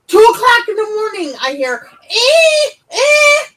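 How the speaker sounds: high squealing rabbit cries, mimicked; high rabbit squeal imitation; imitated rabbit cry. Retold rabbit birth cries.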